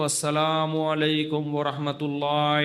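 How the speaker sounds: lightly voiced imam's odd salaam; mimicking an imam. Recounting an imam's strange salaam, lightly mimicked. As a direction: mimic the imam ending prayer oddly. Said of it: "جب وہ سلام پھرنے لگے".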